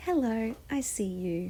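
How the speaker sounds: kind, warm, friendly voice, very slow and drawn out. Guiding a smile practice, saying a greeting to yourself in a warm, friendly voice. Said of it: "in a warm, friendly voice".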